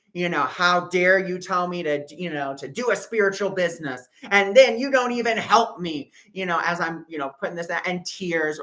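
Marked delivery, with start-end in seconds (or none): 0.4-6.1 mild retold anger. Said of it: "cussing out Spirit like a sailor".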